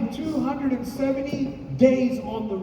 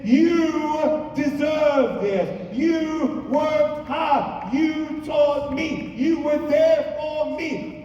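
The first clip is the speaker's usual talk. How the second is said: slow, raised, insistent, a bit higher; heartfelt declaration; 3 semitones higher, slower than usual. Retold or imitated. Son telling his parents they earned retirement, slow raised declaration. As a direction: proclaim it slowly to his parents with full conviction.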